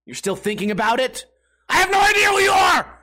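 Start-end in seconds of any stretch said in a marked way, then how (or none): 1.7-2.9 high, full-volume incredulous shout; exasperated yell. Acted. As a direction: yell it at the absent critic. Yelling back at absent critic.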